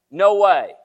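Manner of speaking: flatly refuse, acting it out; emphatic refusal. Peter refusing Jesus in story.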